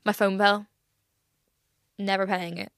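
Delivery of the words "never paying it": slow, breathy whisper; playful slow whisper; whispered refusal. Real, not acted. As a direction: whisper it like a secret vow. Jokingly refusing the phone bill.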